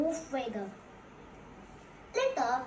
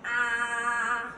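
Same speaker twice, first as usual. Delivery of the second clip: wide-mouthed "ah"; 4 semitones lower than usual. Acted. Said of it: "opened his mouth wide".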